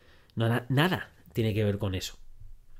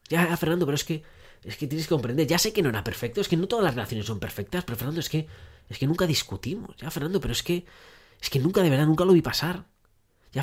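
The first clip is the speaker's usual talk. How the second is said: high, pleading voice of a jilted partner, protesting fast and insistent; whiny heartbroken listener; 5 semitones higher than usual. Acted. Dumped listener pleading with Fernando, high and whining. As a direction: play the dumped partner begging Fernando to understand, pitched high.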